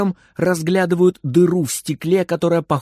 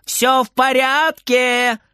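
calling out; 9 semitones higher, slower than usual. Acted. Frieder calling to grandma.

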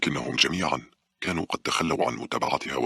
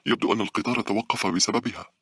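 higher-pitched annoyed character voice; annoyed passenger; 8 semitones higher than usual. A narrator's reading. Passenger grumbling that the train stopped, annoyed. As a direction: complain in a raised, higher voice.

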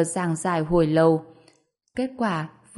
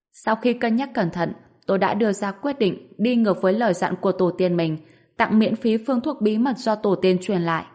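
infomercial. Acted. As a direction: sell it like a miracle-cure ad. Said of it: "bắt chước quảng cáo trên T V". (giọng quảng cáo trên TV)

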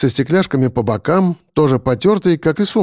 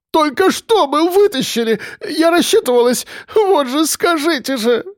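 wailing lament; 13 semitones higher than usual. A narrator's reading. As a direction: moan it out in distress. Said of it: "причитала она".

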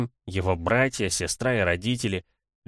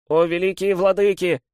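put-on high, loud cry in a small boy's voice; little boy's voice; 10 semitones higher, 7 dB louder than usual. A narrator's reading. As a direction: mimic her cry like a little child. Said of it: "закричал демон голосом маленького мальчика".

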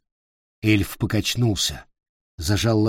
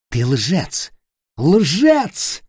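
second "Лжец" yelled much higher and louder; screaming accusation; 6 semitones higher, 3 dB louder, much slower than usual. Acted. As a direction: scream the word "Лжец" at him. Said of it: "заорал он".

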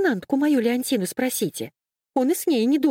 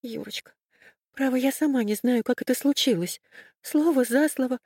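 timid; 6 semitones higher than usual. A narrator's reading. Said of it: "Мура начала робко".

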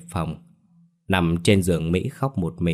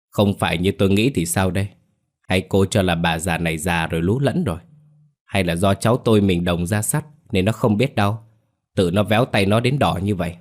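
a touch of biting mockery, lightly voiced; mocking sarcasm. Mother-in-law mocks her daughter-in-law, mildly sarcastic. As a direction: needle her with mild scorn. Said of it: "Giọng bà tràn đầy ý mỉa mai".

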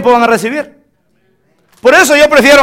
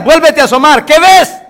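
higher-pitched, pressing command; insistent questioning; 5 semitones higher, 3 dB louder than usual. Acted. Elías sends his servant to look once more, insistent questioning.

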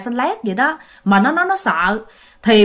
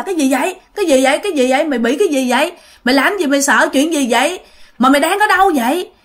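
acted alarmed questioning, higher voice; startled alarm; 4 semitones higher, much faster than usual. Friend woken by a frightened phone call, startled and alarmed. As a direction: fire off worried questions, pitched up. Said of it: "thì bạn mới hết hồn".

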